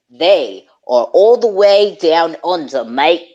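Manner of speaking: a hint of a mock Australian accent. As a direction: slip into a light Aussie voice for down under, mate. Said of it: "Where Crocodile Dundee's from".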